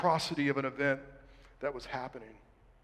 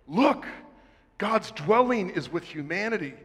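loud voice from throne; 3 semitones higher, 4 dB louder than usual. Retold or imitated. Preacher reading out the voice from God's throne, loud proclamation. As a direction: call out "Look" as a herald would. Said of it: "I heard a loud voice from the throne".

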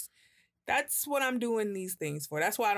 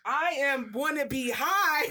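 higher, slow, deadpan retort; blunt retort; 7 semitones higher, 4 dB louder, slower than usual. Retold or imitated. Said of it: "And I was just like".

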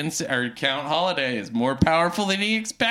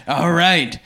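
slow, grandiose mock Count; hammed-up villain monologue; 4 dB louder than usual. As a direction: pompously announce the attack, stretching key words.

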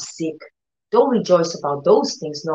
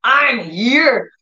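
mock scream; 5 semitones higher, 3 dB louder than usual. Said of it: "always have to be like".

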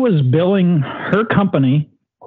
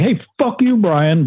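higher, sassy retort quoting her email; mock ghetto sass; 4 semitones higher, slower than usual. Mimicking the bookkeeper's rude email to Brian, sassy. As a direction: throw the insult back with attitude. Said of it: "she started getting kinda ghetto".

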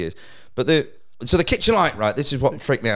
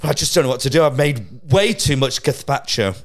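upset posh neighbour. Retold or imitated. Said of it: "genuinely upset on the phone going".

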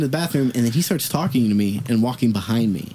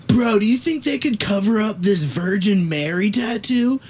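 imitating the stranger; 8 semitones higher than usual. Half-naked stranger asks about tattoo.

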